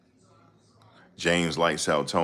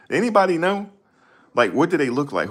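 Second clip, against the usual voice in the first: pitched-up call for an answer; 12 semitones higher than usual. Real, not acted. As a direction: shout the question out to anyone listening. Calling out to audience.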